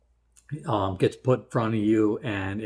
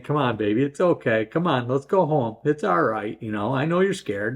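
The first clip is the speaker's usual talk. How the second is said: soothing a scared horse; 3 semitones higher than usual. Retold or imitated. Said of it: "I just kept talking to her".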